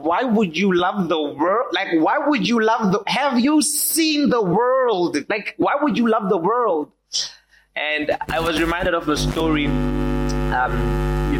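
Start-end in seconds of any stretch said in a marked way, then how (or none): 0.0-6.9 incredulous. Real, not acted. Preacher's rhetorical incredulous question.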